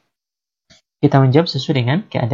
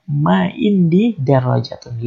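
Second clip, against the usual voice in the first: slow model answer; slower than usual. Shown as a demonstration. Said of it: "maka kita jawab".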